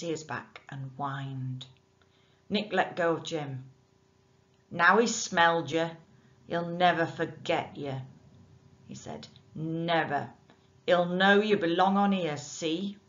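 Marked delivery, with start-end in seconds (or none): 4.7-8.0 loud, rough dockside voice; menacing working man; gruff bargeman. Acted. Nick, rough bargeman, warning. 9.5-13.0 loud, rough dockside voice; menacing working man; gruff bargeman. Acted. Nick continues warning.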